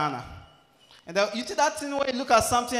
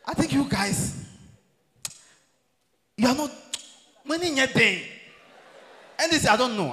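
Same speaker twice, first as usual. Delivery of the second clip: ordinary talk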